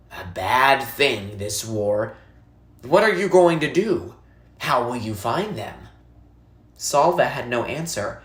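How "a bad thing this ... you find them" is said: put-on old woman, concerned. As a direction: gently ask the boy what he will do.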